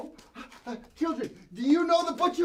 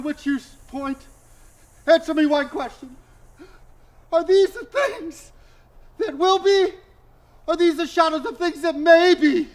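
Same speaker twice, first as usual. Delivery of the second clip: desperate plea; 4 dB louder than usual. Acted. Scrooge begging the final spirit.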